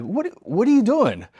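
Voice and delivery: high mocking kid voice. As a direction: jeer like a laughing kid. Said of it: "all the kids are start laughing at me".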